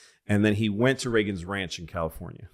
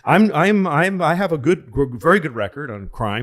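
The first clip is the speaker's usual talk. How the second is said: flustered candidate, much higher and louder, fast; flustered politician; 7 semitones higher, 6 dB louder than usual. Retold or imitated. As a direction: stammer and scramble to dodge the question. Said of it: "He goes".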